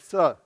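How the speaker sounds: "th" sounded out as a lisp. Shown as a demonstration. Preacher showing all Ephraim can say, lisped "th". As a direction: lisp "th" in place of sh. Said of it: "they would lisp the th".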